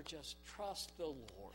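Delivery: soft, very slow reassurance; drawn-out calm comfort; slow soothing. Acted. Soothing echo.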